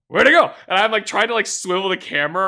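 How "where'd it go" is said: confused. Retold or imitated. Lost Pokemon in battle.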